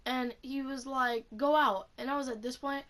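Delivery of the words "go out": louder, higher mock order; short raised-voice command; retold yelling. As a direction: imitate a teacher throwing a student out. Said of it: "like, yelling at me".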